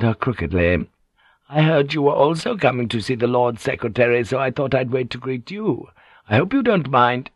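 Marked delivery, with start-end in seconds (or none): 1.5-7.3 higher, polite woman's voice; a hint of crooked courtesy; lightly ingratiating Kyoko. Kyoko waylaying the lady, lightly ingratiating.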